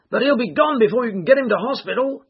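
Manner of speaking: high, loud bystander's warning; shouting. A narrator's reading. Bystander warns the crowd about the injured man, shouting. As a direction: call out high and urgent across the crowd. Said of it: "shouted another".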